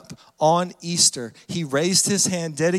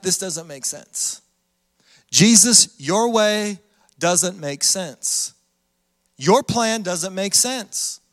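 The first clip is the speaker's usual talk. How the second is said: slow complaint to God; much slower than usual. Retold or imitated. Disciples and the preacher complaining to Jesus, slow. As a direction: draw out every word of the doubt. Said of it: "I've said this to God".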